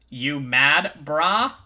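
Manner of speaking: gloating taunt at the prisoners; mocking taunt. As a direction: sneer it like an internet troll. Troll villain taunts.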